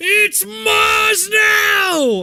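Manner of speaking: excited, loud, very high crowd-style shout. Voicing a crowd member who recognizes a hero: excited crowd shout. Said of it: "louder and louder".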